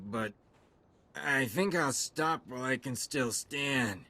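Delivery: tipsy disbelief, then halting thanks; drunk. Acted. Soldier learning the mission is done, drunk and surprised. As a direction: stumble through it like a grateful drunk. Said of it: "You smell like you've had a few too many drinks".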